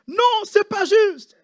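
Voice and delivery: imitating an Asian accent, high and slow; mock Asian accent. Preacher imitating the complaining nurse, mock Asian accent. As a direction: drag out a high, sing-song "Non, c'est pas juste". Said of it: "avec l'accent asiatique".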